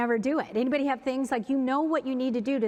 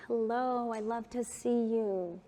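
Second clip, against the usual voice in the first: tender greeting; 4 dB quieter, slower than usual. Shown as a demonstration. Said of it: "we hold people like this".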